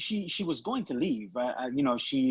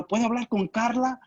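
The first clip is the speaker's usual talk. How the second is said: put-on lightly higher polite choir boy voice; 6 semitones higher than usual. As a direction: ask sweetly and innocently. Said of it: "And I did the choir voice".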